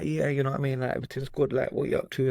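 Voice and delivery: casual imitation of London street accent; put-on roadman accent. Demonstrating his old habit to the host, light roadman accent. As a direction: toss it off in a mild roadman accent. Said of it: "that's where the accent came from".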